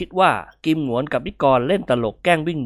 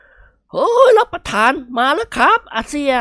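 high, loud, slow servant's yell; loud warning shout; 13 semitones higher, 5 dB louder, slower than usual. A narrator's reading. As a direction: yell a warning to your boss. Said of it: "ร้องตะโกนขึ้นด้วยเสียงอันดัง". (แห้วตะโกนเตือนเสี่ยเสียงดัง)

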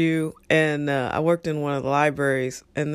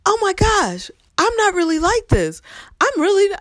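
put-on much higher, pleading girl voice; pleading student; 4 dB louder than usual. Student pleading with the librarians that she is nice. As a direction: protest your innocence, high and eager. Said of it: "she's like".

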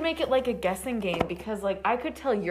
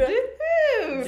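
cowboy voice; 10 semitones higher than usual. Acted.

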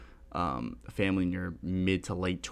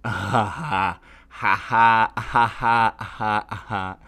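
laughing; 7 dB louder, slower than usual. Real, not acted.

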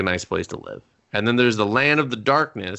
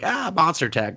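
higher-pitched mock nonchalance; cheerful, gung-ho; 6 semitones higher than usual. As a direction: cheerfully brush off danger in an imitated voice. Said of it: "cheerful, like".

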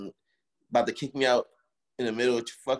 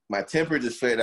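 ordinary talk

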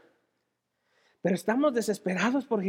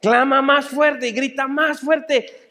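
loud, drawn-out exhortation; urgent shout; 3 semitones higher, 5 dB louder, slower than usual. Real, not acted. Preacher urging the blind man to cry louder, urgent shout. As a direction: urge them on at full voice.

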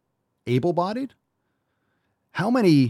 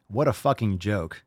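usual speaking voice

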